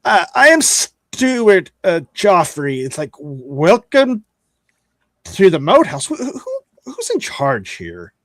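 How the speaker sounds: a polite, slow steward voice; prim young steward. Acted. Steward welcoming the party, slow and prim. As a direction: greet guests with stiff formality. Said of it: "He's like".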